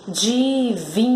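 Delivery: "Divindade" stretched into four separate syllables. Shown as a demonstration. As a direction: sound out di-vin-da-de for "Divindade". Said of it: "Quatro sílabas".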